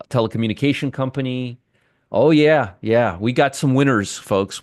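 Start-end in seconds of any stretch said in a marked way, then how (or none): 2.1-3.2 mock excitement. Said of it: "I am being really sarcastic". 3.2-4.6 sarcastic. Acted. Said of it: "I am being really sarcastic".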